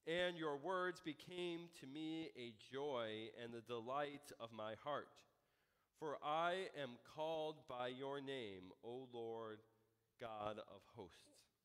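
slow, measured Bible reading; unhurried reading of scripture from the pulpit. A narrator's reading. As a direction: read the verse out deliberately, drawing out the words. Reads scripture aloud.

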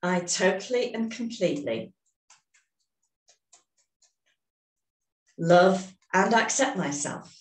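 slow, deliberate setup statement, every word placed; measured tapping affirmation; slow affirmation for repeating. Shown as a demonstration. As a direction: say it so they can echo you. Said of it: "start repeating after me".

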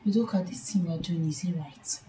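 low, fast hushed reproach. Acted. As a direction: press her quietly, almost whispering. Confronting friend in low voice.

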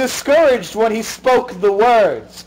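hint of a solemn sermon voice; lightly hammed-up prophet sermon; mock preacher. Friend preaching donut religion to the hosts, mock solemn. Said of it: "y'all ready for the true religion".

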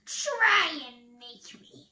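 loud, slow, defiant cry; Nightingale shrieking. A narrator's reading. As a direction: stretch the first word into a loud taunt. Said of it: "shrieked Nightingale".

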